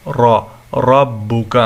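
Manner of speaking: slow, thick "raw" sound in را and ربك; را said heavy and drawn out. Shown as a demonstration. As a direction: demonstrate a full-mouthed R in ربك. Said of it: "اس کو موٹا کر کے پڑھنا ہوگا".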